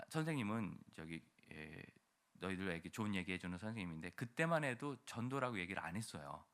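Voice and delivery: ordinary delivery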